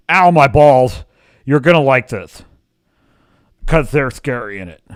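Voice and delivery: mock sworn testimony with long pauses; stiff deposition voice. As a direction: play the shill testifying like in court. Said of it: "like he's in a court deposition".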